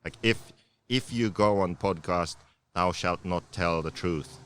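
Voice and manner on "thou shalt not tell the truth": mock commandment. Mock rules read as commandments.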